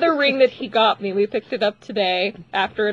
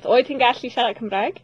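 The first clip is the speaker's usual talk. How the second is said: fake foreign language. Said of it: "That's not Russian".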